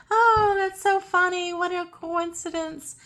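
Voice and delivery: sing-song airy dismissal; mock cheery. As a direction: toss it off like a silly coincidence. Clueless psychic brushing it off.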